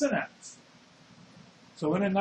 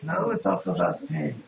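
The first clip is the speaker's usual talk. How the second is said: put-on German accent. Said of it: "He had a German teacher".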